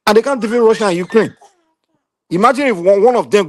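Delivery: high, laughing through the words; incredulous laugh breaking into the line; laughing disbelief. Real, not acted. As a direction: laugh at how absurd it is. Mocking the superpower's failure.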